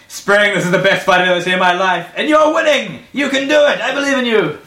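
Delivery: high, loud encouragement; excited cheering. Acted. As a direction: cheer your ally on wildly. Bard cheers on ally.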